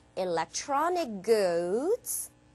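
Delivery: upward, comma-like rise at the end of goods. English reading lesson marking a comma: rising pitch at end of goods. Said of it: "올라가죠".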